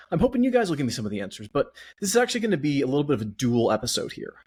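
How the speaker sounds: talking fast while winded; out of breath. Real, not acted. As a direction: rush the words, short on breath. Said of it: "Man, I'm still out of breath".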